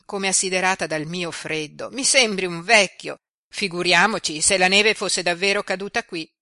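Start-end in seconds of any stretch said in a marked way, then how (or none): 1.9-6.3 put-on louder, playful girl's teasing; teasing young girl. A narrator's reading. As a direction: tease him like a lively girl. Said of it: "riprese tosto Jenny".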